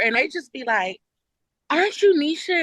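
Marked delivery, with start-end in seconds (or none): 1.7-2.6 higher, soft-spoken recognition; lightly pitched-up inquiry; curious celebrity. Retold or imitated. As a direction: imitate someone tentatively recognising a face. Mimics celebrities recognising her.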